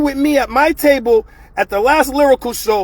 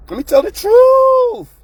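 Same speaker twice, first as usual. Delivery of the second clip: emphatic repeat; 11 semitones higher, 5 dB louder, slower than usual. Real, not acted. Repeats line, much louder and higher.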